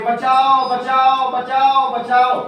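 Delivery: mock cries of बचाओ; crying for help. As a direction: call out बचाओ like a drowning bird. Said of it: "चिल्ला रही थी". (बचाओ बचाओ पुकारना)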